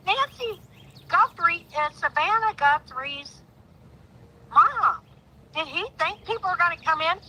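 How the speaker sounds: outraged. Real, not acted. Outraged rant about the sheriff.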